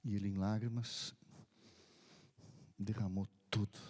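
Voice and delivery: ordinary talk, nothing marked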